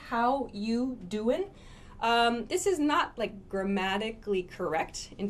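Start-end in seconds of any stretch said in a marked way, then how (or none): 0.1-1.5 "How you doing" said slowly, you and doing linked; slow casual greeting. Shown as a demonstration. Teacher reading the slide slowly. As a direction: drop the are and stretch it out. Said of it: "This says".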